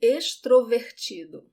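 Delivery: Extrovertido, est-ro-ver-ti-do; Portuguese ex sound. Shown as a demonstration. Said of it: "the pronunciation is not X, is ex".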